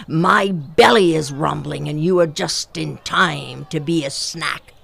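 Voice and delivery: a hungry big cat savoring the snack; rumbling leopard. Acted. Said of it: "rumbled Osibo".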